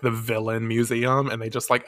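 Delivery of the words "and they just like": normal talking voice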